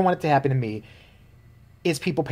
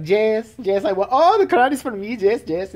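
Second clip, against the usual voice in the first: higher, giddy pageant winner squealing; mock gushing winner; 6 semitones higher than usual. Mocking winner's gushing joy.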